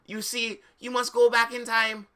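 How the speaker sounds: cheesy oracle voice; mock seer voice. Professor prophecy voiced.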